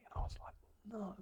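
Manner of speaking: breathless whispered no. Retold or imitated. Hearing his own learners won, whispers in disbelief. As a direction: hush it in disbelief.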